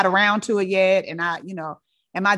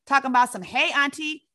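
higher and louder, indignant retort; an auntie defending her house rules; auntie snapping back; 6 semitones higher, 5 dB louder than usual. Retold or imitated. Auntie snaps back at narrator.

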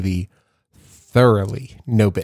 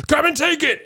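high-pitched playful taunt; taunting kid. Retold or imitated. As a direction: call it out like a kid about to run. Acting out son taunting his teachers.

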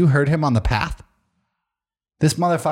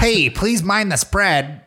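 slow, higher hyped announcement; Gary Vee impression; 5 semitones higher, much slower than usual. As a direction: push it like a pumped motivator. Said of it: "I can't do a Gary Vee impression".

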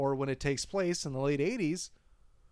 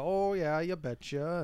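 put-on Minnesota accent; 2 semitones higher, slower than usual. Host giving the Fargo stereotype, Minnesota accent. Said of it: "and so you get the".

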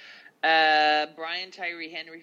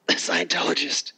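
laughing; 2 semitones higher, 9 dB louder than usual. Real, not acted. Laughing aside on actress.

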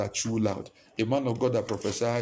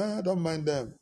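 dismissive; 4 semitones higher than usual. Retold or imitated. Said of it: "That's how they say it".

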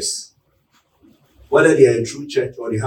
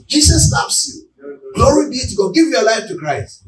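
street preaching call; 8 semitones higher than usual. Retold or imitated. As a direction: cry it out like a street preacher in a town square. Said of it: "I lift my voice and say".

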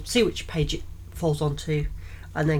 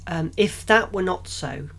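slowed, halting first take; stumbling reading. Shown as a demonstration. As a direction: stumble through it hesitantly. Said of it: "So I'm good at reading".

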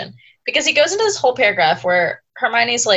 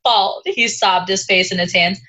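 put-on higher, whiny sobbing valley girl; sorority girl voice; 4 semitones higher than usual. Hagrid's confession read as sorority girl, higher whiny meltdown. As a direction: wail it like a dramatic sorority girl. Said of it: "read this paragraph in a sorority girl voice".

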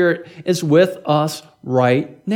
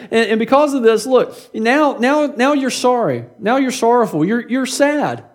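mild fussing; 4 semitones higher than usual. Retold or imitated. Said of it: "he kinda keeps fussing at him".

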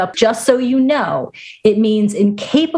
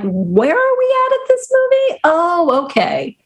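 much higher, baffled; confused; 9 semitones higher than usual. Retold or imitated. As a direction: sound lost and puzzled. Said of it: "I'm like".

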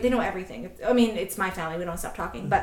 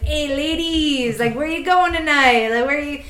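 put-on higher-pitched, botched Amsterdam accent; bad Dutch accent; 5 semitones higher, 6 dB louder than usual. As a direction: hail the women in a poorly faked Dutch accent. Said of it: "I can't do an Amsterdam accent".

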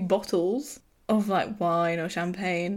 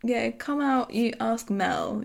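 evasive, reluctant; 4 semitones higher, slower than usual. Retold or imitated. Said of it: "he's kinda like, I don't wanna answer".

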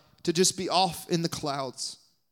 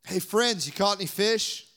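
playful teasing; 4 semitones higher than usual. Retold or imitated. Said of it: "he just was having fun".

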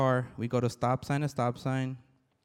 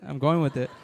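laughing; 4 dB louder than usual. Retold or imitated. Retelling a stranger's hug offer.

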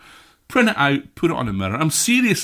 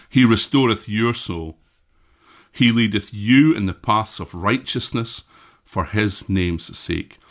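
scripture reading. Acted. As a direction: read it like a reverent blessing. Recites Psalm 23 to congregation.

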